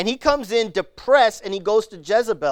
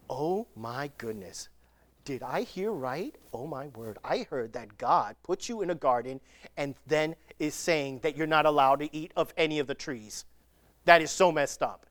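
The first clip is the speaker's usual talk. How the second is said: a hushed, coaxing serpent, lower and softer; sneaky serpent; 4 semitones lower, 4 dB quieter than usual. Retold or imitated. Serpent sidling up to Eve, feigning hushed shock. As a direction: lean in and feign shock like a sly snake. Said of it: "He goes up to Eve and goes".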